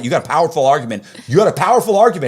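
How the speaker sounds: fast, rising to a loud high push; building mock reassurance.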